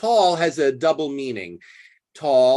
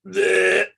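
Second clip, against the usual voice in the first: burp noise; 3 semitones higher, 4 dB louder than usual. Retold or imitated. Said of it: "you're like".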